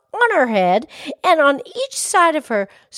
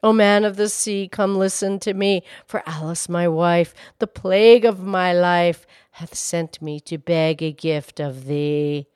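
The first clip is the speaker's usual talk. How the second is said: firmer, projected summons in verse; steady incantation with more force; calling rhyme; 4 semitones lower than usual. A narrator's reading. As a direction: call the verse out over a gale, dropping off at the end. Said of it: "he called to the fish".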